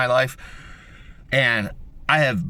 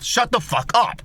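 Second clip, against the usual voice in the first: shouted threat; 7 semitones higher, slower than usual. Retold or imitated. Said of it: "Punch him right in the fucking mouth".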